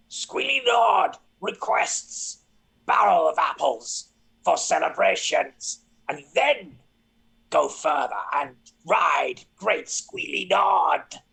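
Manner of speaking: proclaiming goblin. Acted. Goblin announces to crowd.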